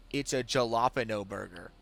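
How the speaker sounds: "jalapeno" with an English J and no ñ; deliberate mispronunciation. Retold or imitated. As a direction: innocently insist on "jalapeno" with a hard J. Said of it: "saying it like that because I know it bothers him".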